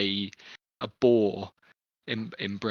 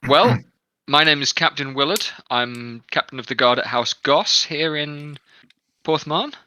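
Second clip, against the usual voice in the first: guard captain; 4 semitones higher, 4 dB louder than usual. Acted. GM voices Captain Willard.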